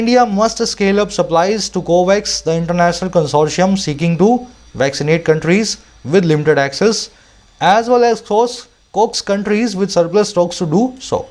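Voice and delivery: slow, deliberate reading aloud; slow dictation-style read; slow editorial reading. Acted. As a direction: read each phrase out slowly for students. Reads editorial aloud slowly.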